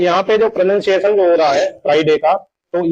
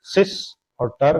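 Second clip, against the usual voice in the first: सिस, a pause, then टर; syllable by syllable; 4 dB quieter than usual. Shown as a demonstration. Teacher dividing sister into parts, सिस held apart from टर. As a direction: leave a clear gap between सिस and टर. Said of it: "दो parts में बोल रहे हैं".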